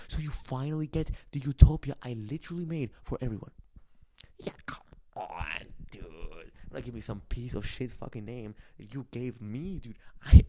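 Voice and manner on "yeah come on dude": low whisper. Real, not acted. Scoffing aside to viewer.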